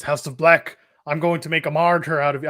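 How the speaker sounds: put-on a light, half-hearted stab at an Irish accent on "martyr"; attempted Irish accent. Pac on the big screen threatening House of Black, faint Irish accent. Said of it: "that was Irish".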